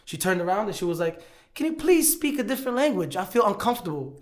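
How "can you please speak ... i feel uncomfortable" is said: mimicking a nervous passenger. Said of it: "She, she said it like that".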